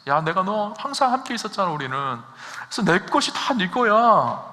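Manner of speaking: a father gently reassures his resentful elder son; father reassuring his son. Acted. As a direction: speak it like a loving father. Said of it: "아버지는 말하고 있어요".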